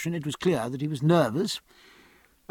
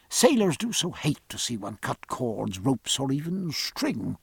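muffled voice; 4 dB quieter than usual. Acted. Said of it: "he added in a muffled voice".

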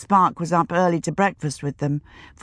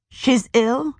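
shocked; 7 semitones higher than usual. A narrator's reading. Shocked at bad news.

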